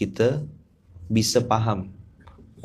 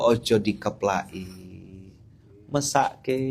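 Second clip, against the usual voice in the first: Javanese speech; 2 semitones lower, 4 dB quieter, slower than usual. Retold or imitated. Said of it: "seperti orang Jawa".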